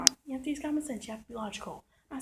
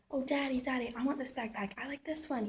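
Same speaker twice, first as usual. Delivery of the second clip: lightly voiced whiny kid, a bit higher; whining little boy; 3 semitones higher than usual. Retelling a little boy begging his daddy, lightly mock whining. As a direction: mildly imitate a small boy begging for a backpack. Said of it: "He was whining".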